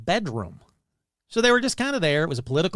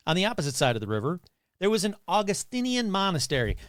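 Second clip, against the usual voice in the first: Doctor Evil voice. Acted. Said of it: "Doctor Evil talking about his childhood".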